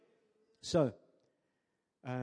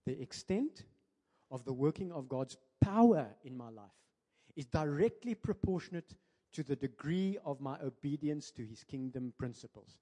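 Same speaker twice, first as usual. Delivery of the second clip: a touch slower, spelling out each phrase; slowly; 3 dB louder than usual. Shown as a demonstration. Preacher repeating his key sentence to the church, slowly. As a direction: repeat it deliberately so it sinks in. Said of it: "I'm gonna repeat that slowly".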